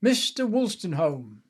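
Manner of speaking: slow imitation of a summoning call; Miss Bruce. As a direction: call him back by surname, drawn out. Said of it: "I can hear her saying it now".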